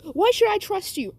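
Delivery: put-on high, mildly frightened child's voice; scared challenge. Frightened boy to the robot, high wary challenge.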